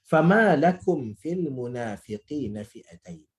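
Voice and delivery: slow, measured Arabic recitation; drawn-out, reverent verse reading; Quran recitation. Real, not acted. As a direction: recite the verse slowly with elongated vowels.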